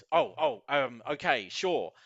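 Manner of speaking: high, loud, startled oh settling into compliance; flustered bystanders. Acted. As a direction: stammer like a crowd hurrying to obey. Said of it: "they say".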